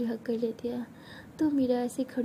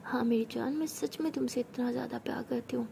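tender whisper; 3 dB quieter than usual. Acted. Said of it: "उसके बहुत करीब आ जाती है".

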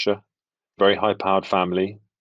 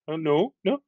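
much higher, nervous pitch; 8 semitones higher than usual. Shown as a demonstration. Actor showing his fearful American voice, high. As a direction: go up high like you're scared. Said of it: "I go very high".

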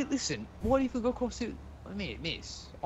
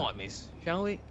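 put-on rough Cockney accent, slow and easy; Cockney lad offering his arm; Cockney accent, a bit lower; rough British accent; 4 semitones lower, 7 dB quieter than usual. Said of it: "Your accent's rather rough on the ears".

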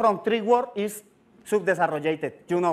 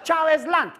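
Venezuela as fake English; gringo-style "Chávez Land"; mock English; 5 semitones higher, slower than usual. Shown as a demonstration. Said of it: "entonces diga". (acento gringo de broma)

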